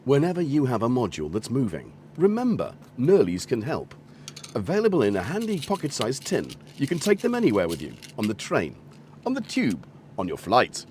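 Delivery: lightly put-on TV advert voiceover. Streamer spoofs an advert for a pocket-sized tin, advert voice. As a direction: sell it like an advert announcer. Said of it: "My advert voice".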